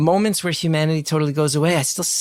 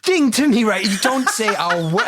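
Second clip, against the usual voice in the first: retold yelling; 8 semitones higher than usual. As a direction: imitate a crying stranger yelling him away. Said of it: "yelling at a man".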